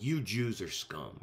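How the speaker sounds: mildly acted, slow contempt; scornful attitude. Imagined woman scorning the Jews, mock scornful attitude. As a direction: give it a touch of slow, self-righteous scorn. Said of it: "would have had an attitude".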